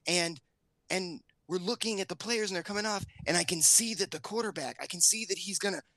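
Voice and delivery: daughter retelling. Retold or imitated. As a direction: tell it as the upset kid would. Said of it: "She goes".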